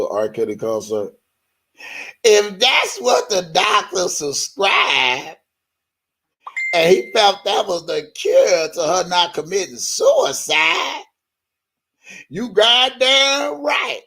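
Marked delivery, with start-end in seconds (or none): 2.2-11.0 mock-earnest defender voice, slowed; hamming up her reasoning; mocking imitation. Mocking a defender of her answer, mock-earnest. 12.3-14.0 high, drawn-out mock insistence; mocking imitation. Mocking a defender of the concert, high and drawn out.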